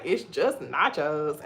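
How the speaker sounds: slow, drawn-out imitation of him; retold bafflement. Imitating companion during her panic attack, slow bafflement. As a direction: spell it out slowly, as if baffled. Same retold line repeated.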